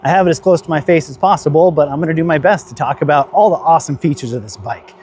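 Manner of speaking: talking into a windy microphone; wind on mic. Real, not acted. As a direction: wind noise over the mic. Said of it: "you can probably hear the wind noise in the microphone".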